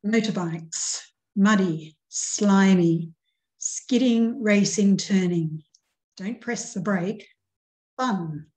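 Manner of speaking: put-on upbeat poem reading to children; lively poem reading. Shown as a demonstration. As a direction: read it with energy, like a race. Reads lively motorbike poem.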